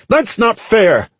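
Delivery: high, slow, squeaky whine of protest; shouting goblin. A narrator's reading. Goblin whose shield is broken protests, high squeaky shout. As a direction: protest slowly in a squeaky creature voice. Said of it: "the goblin's driver shouted".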